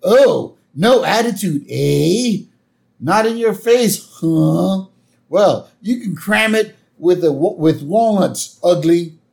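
loud, high mock anger; angry. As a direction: blow up at him. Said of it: "Homer's really angry".

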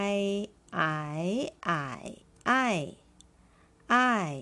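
I as a clear falling fourth tone, repeated slowly; model pronunciation of ài. Shown as a demonstration. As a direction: say I with a sharp falling tone, as a model for students. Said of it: "เรามาออกเสียงกันค่ะ".

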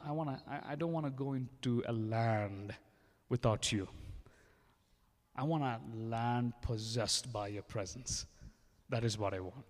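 earnest spoken prayer to God; a preacher voicing a prayer for the crowd; fervent prayer. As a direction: lead the church in heartfelt prayer. Leads the congregation in prayer.

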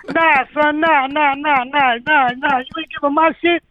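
high, fast mock rapper refusal; high-pitched scoffing rapper voice; Mad Rapper voice. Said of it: "the Mad Rapper".

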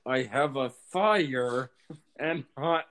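slow, coaxing mock seduction; mock creepy suitor. Friends parody the song's suitor, slow mock smarmy coaxing. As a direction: lay it on thick like a smarmy host.

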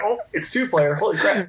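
a touch of retold shock at a two-player game; retold surprise. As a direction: act out a sudden discovery. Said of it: "I'm like".

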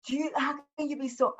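imitating mom. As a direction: imitate your worried mother. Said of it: "My mom goes".

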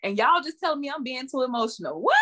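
high, rising exasperation with a laugh; laughing exasperated outburst. Real, not acted. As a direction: vent the frustration, voice climbing. Venting about being dismissed.

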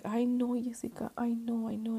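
mildly panicked mock mother; imitated panic. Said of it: "she starts panicking".

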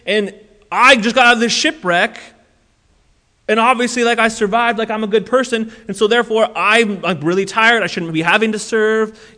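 a hint of an indignant rant, speeding up; hammed-up self-righteous gripe; mock entitled rant. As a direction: complain like the hard done-by good guy. Mock entitled rant Paul never said.

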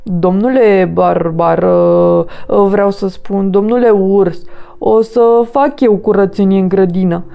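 nervous apology. Acted.

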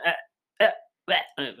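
short, loud mock grunts; imitated cut-off noises. Host showing listeners what they might hear, mock grunts. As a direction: make abrupt little noises, as if interrupted. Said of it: "así que si escuchan".

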